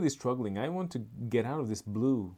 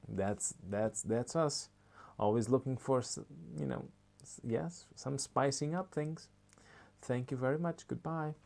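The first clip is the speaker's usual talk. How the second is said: shop clerk voice; 2 semitones higher than usual. Acted. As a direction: cheerfully explain the product defect. Nancy on the phone.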